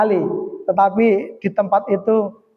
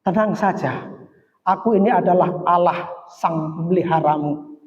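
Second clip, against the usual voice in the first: lightly voiced divine reassurance, slightly lowered; low, measured comfort from above; God reassuring; 3 semitones lower than usual. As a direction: speak as God calming a servant. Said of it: "Seolah-olah Tuhan berkata kepada saya".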